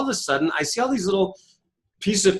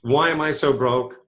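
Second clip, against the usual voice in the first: whiny self-pity; 4 semitones lower than usual. Retold or imitated. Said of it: "lousy thought seeds".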